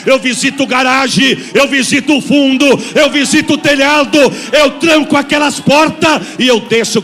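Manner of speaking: loud prophetic proclamation, slowed on key lines; loud prophecy. Acted. Preacher voicing the sister's prophecy to the church, loud and proclaiming. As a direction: thunder it out as God's word.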